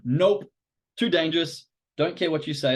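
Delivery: a hint of a firm refusal, playing the amygdala; amygdala refusing. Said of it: "the amygdala has gone".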